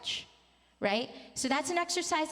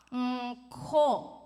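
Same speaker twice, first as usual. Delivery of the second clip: demonstrated "mm-ko"; 3 dB louder than usual. Shown as a demonstration. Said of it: "go to the ka sound".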